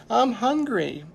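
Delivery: put-on high-pitched hungry little girl; small child telling mother. A narrator's reading. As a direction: lift the voice into a child's plea. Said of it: "a little girl said to her mother".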